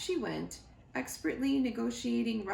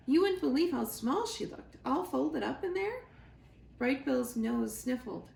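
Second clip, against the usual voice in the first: chatty otter; 3 semitones higher than usual. Acted. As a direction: spin the tale with relish. Shelley tells the first meeting.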